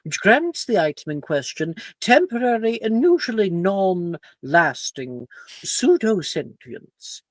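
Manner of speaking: lightly voiced stern teacher; strict professor lecturing.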